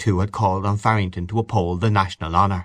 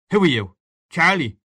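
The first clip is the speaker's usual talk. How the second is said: questioning father; 8 semitones higher than usual. A narrator's reading. Father questions boy in the dark.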